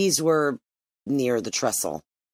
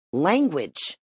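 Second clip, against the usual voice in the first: a sharp mother's rebuke, a bit higher; snapped; 5 semitones higher than usual. Acted. Mother snaps at her son for swearing, sharply. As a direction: snap the word at her. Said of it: "she snapped".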